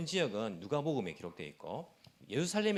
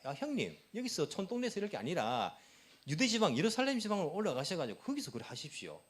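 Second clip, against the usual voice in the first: mocking older brother, pitched higher; sarcastic jab; 6 semitones higher than usual. Brothers taunting Jesus to go to Judea, sarcastic. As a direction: needle him with fake encouragement. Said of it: "라고 비꼬듯이 말하는 거예요".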